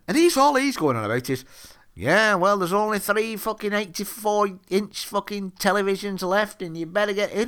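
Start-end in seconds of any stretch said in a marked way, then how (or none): 2.0-7.5 imitated spotty teenage lad. Teenager going on about televisions left, mocking imitation. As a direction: put on a hint of an acne-ridden sixteen-year-old. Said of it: "by his voice that he's got fucking acne".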